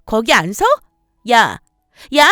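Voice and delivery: angry yelling. Acted. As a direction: shout her to stop. Sister-in-law yells after her. (화나서 소리치며 불러 세우기)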